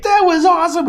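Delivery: very high, thrilled exclamation; re-enacted elation. Diver thrilled after the first plunge, high mock-excited cry. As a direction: burst out like a diver just surfaced. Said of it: "and I was like".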